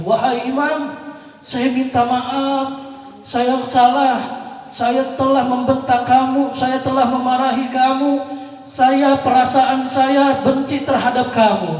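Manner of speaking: high, slow, pleading begging for forgiveness; tearful plea. Retold or imitated. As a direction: beg the Imam through tears, drawn out. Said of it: "orang itu nangis jadi-jadinya". (memohon ampun sambil menangis, pelan)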